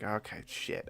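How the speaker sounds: hushed whispered curse; whispering. Retold or imitated. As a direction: whisper it so nobody hears. Hiding in stall, someone enters.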